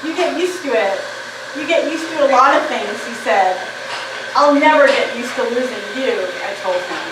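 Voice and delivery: measured poetry recital, line by line; poem reading. Acted. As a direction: read it as a poem, pausing between images. Reads own poem aloud.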